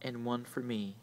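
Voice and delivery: soft unvoiced whisper; hushed, breathy-free whisper. A narrator's reading. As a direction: whisper it like a secret shared in the dark. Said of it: "she whispered".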